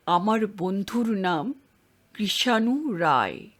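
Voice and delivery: slow, deliberate, every word spelled out; each word clearly. Acted. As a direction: lay down each word carefully, slowly. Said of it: "প্রত্যেকটি শব্দ পরিষ্কার উচ্চারণ করে". (ধীরে, প্রতিটি শব্দ স্পষ্ট করে)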